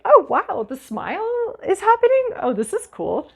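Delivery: high, squeaky amazed voice; squealing with surprise at a smile; mock delighted brain. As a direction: play the brain, thrilled to notice a smile. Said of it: "our brain's like".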